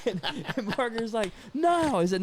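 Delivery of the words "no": high-pitched retold cry of no; mock-desperate, pitched way up; acted protest. Roommate tries to stop him over the phone, desperate.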